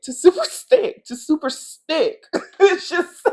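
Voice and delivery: high giggly laugh through the words. Real, not acted. Vlogger giggling at her own super sticky joke, laughing. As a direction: crack up mid-word.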